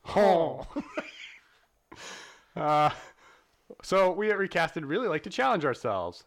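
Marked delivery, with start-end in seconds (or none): 0.0-0.6 goose honk. Pretend. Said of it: "my impression of a French goose".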